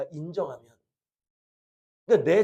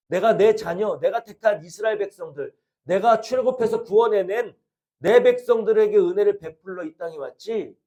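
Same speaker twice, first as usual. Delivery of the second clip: cold stern rebuke; 3 semitones higher, 6 dB louder than usual. Retold or imitated. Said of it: "매멸차게, 냉정하게".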